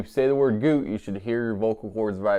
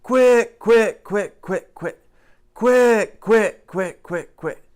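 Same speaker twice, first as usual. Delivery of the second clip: high, loud cut-off "quick" quacks; duck call honks; 11 semitones higher, 5 dB louder, much slower than usual. Shown as a demonstration. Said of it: "your greeting call should sound a little something like".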